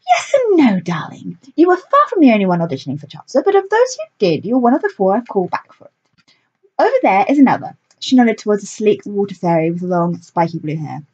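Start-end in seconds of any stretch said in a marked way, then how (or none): 0.1-7.8 theatrical director voice. A narrator's reading. Lilith character voice.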